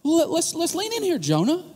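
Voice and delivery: a hint of God gently cornering a sulking Jonah; God pleading with Jonah. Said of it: "And here's God going".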